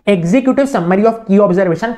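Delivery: slow, word by word dictation. Shown as a demonstration. Teacher dictating the key phrase to students, very slow. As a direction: spell it out slowly for notes.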